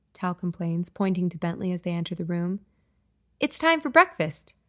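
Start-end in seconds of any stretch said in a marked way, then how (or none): 3.4-4.6 put-on much higher and louder, an eager kid calling breakfast; excited announcement. Young son announcing breakfast to the family, excited and much higher. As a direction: announce it like a thrilled little boy. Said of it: "Bentley announces excitedly".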